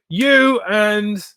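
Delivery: high put-on Australian accent; pointing the finger in a put-on Australian accent; a lightly voiced Australian boss. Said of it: "my Australian accent".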